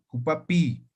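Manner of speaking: Jupapi with a long, held final i; lengthened final vowel. Shown as a demonstration. Teacher repeating the word for students, long-ending Jupapi. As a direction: stretch the last vowel of Jupapi. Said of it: "Pronunciamos un poco más alargada la vocal".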